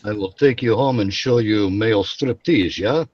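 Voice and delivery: bad Russian accent. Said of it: "bad Russian accent".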